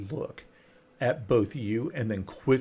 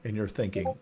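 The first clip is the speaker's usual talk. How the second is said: ordinary delivery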